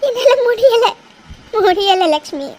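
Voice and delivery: broken, tearful repeating of முடியல; breaking down. Acted. Mother breaks down to her friend, tearful. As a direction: sob out that you can't go on.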